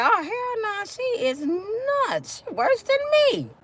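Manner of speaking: scared attacker. Retold or imitated. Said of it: "I bet they leave your ass alone".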